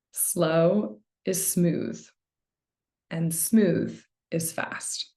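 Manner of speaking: very slow, spaced-out adage; slow and deliberate. Shown as a demonstration. Meditation coach sharing a loved adage, slow and deliberate. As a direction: draw out each half, pausing between. Recites adage slowly to illustrate it.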